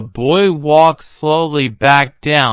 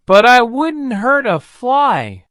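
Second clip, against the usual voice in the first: lightly voiced gentle dragon, higher; dragon's voice; 11 semitones higher than usual. A narrator's reading. Dragon tells the boy he wouldn't hurt anyone, lightly voiced.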